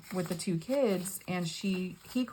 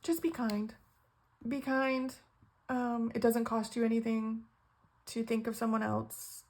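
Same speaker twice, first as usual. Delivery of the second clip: high, tearful plea; choked-up, higher-pitched appeal; holding back tears; 4 semitones higher than usual. Real, not acted. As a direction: plead gently through real tears. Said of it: "I don't wanna cry".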